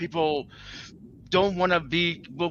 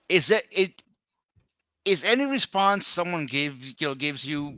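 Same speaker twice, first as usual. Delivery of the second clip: half-successful monotone question; attempted monotone. Shown as a demonstration. Asking a question as monotone as possible, attempted monotone. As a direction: try to hold one note, halting. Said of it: "as monotone as I can".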